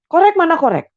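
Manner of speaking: high, loud shouted question; angry demand. Retold or imitated. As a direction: demand the matches furiously. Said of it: "ayah mencari korek, marah". (ayah membentak mencari korek)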